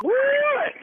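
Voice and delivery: very high, drawn-out shock; real astonishment, voice shooting up; stunned disbelief. Real, not acted. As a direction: exclaim in total disbelief. Learns it was a prank.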